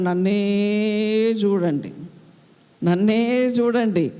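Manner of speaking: long drawn-out, insistent vowel; emphatic quoted appeal. Retold or imitated. Preacher voicing Paul's call to look at him, drawn-out emphatic appeal. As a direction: stretch out the first word, then let it fall. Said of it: "పౌలు గారు అంటున్నాడు".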